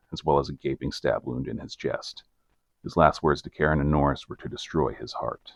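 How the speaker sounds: measured storyteller's read; scripted narrator voice, evenly paced; documentary narration. A narrator's reading. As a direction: narrate the case like a true-crime report. Reads scripted case narration.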